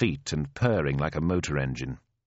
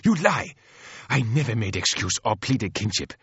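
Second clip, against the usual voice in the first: high, impassioned accusation; squealed outrage; 4 semitones higher than usual. Acted. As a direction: explode at the sister, building to a bitter cry. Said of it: "let out a squeal like a steam whistle".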